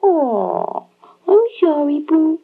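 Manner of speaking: put-on baby voice. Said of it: "that stupid baby voice".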